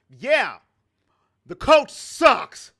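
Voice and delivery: slow, loud, dopey mock voice of the quarterback; hammed-up rookie griping about the coach. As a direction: parody the rookie saying it. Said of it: "why would you want him to do that".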